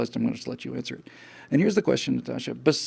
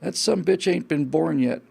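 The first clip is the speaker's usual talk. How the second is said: slow, louder, a hint of a gruff cowboy; cowboy drawl; 4 semitones higher, 7 dB louder than usual. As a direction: deliver the cowboy's punchline slowly. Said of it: "the cowboy turned to him, he said".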